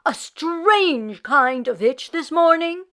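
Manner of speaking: put-on curious old rabbi. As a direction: draw out the question. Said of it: "he said".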